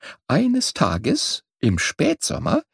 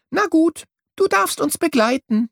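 high, kindly bird voice; lightly twitter a good-natured yes; 10 semitones higher than usual. A narrator's reading. Swallows let young bird come along, good-natured. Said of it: "zwitscherten die Schwalben gutmütig".

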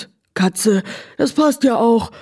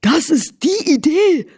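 excited; 5 semitones higher than usual. Acted. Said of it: "wieherte das Pferd begeistert".

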